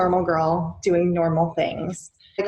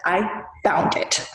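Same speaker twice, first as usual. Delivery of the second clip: whisper; slower than usual. Acted. Reading card mystically.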